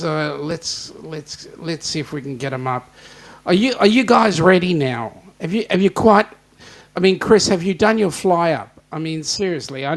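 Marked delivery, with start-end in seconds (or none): 3.4-8.8 calling out. Real, not acted. Calling to guys before bringing them on.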